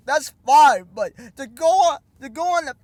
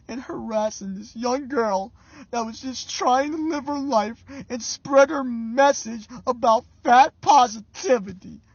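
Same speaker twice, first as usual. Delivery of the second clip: mock tearful apology. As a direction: pretend to be choked up with sorrow. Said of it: "That's how you should have responded".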